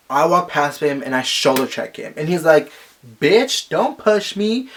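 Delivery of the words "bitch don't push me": mock stalker snap. Stalker's retort, mocked.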